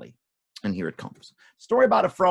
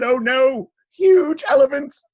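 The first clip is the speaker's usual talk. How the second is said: very high, loud, stretched cry; mock frightened shout; 11 semitones higher, 10 dB louder, slower than usual. A narrator's reading. Townspeople facing elephants, high loud dismay. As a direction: shout in theatrical alarm.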